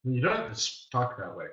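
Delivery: low, soft imitation of a chiding wife; lightly voiced wife, quiet reproach; disapproving wife. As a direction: murmur a low, gentle telling-off. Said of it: "my wife's like".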